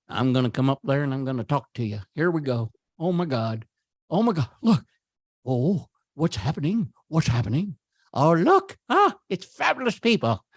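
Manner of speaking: lightly voiced, fast comic patter; a hint of the comedian playing to the crowd, quickening; a light, quick Jonathan Winters put-on; voicing Jonathan Winters. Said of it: "I'm doing all these voices".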